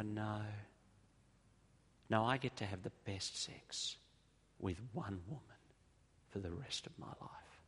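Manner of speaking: fading to a near whisper; sincere, quietly falling away; tender reply. Retold or imitated. Friend's tender reply, voice sinking.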